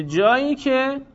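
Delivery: very slow, each word laid out for notes; slow dictation. Shown as a demonstration. Teacher to students stating the rule, very slow dictation. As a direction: spell the rule out slowly so they can write it.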